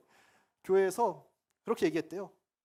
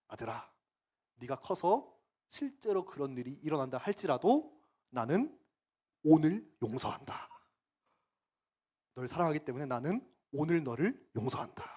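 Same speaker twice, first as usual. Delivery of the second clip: tender prayer. Retold or imitated. Father's prayer over baby.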